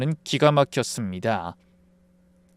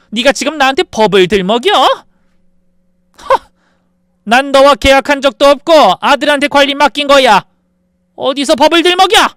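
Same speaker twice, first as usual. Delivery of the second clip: higher, louder, incredulous fury; mother outraged at the daughter-in-law citing the law, shouting; 11 semitones higher, 10 dB louder than usual. Acted. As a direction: blast her for citing the law. Mother outraged at legal threat.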